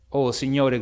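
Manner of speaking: cry out. Acted. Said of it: "gridò Poole".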